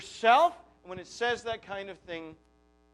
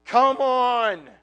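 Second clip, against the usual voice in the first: incredulous angel; 4 semitones higher, 7 dB louder than usual. Retold or imitated. Gabriel rebuking doubting Zechariah, loud and incredulous. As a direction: scold him like he can't believe the nerve. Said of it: "can't you just hear the incredulity".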